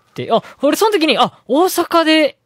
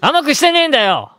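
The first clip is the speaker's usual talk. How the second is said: hot-blooded teacher; 5 semitones higher than usual. Acted. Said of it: "急に熱いドラマみたいになってきたけど".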